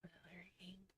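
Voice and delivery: unvoiced whisper, asking herself. Real, not acted. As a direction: whisper the question as if only to yourself. Wondering aloud to herself.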